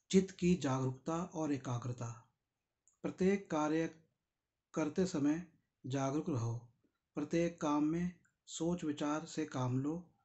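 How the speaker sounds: measured recitation with deliberate pauses; formal reading aloud. Acted. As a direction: read the teaching out phrase by phrase. Reads the book's text aloud. (ठहर-ठहर कर औपचारिक पाठ)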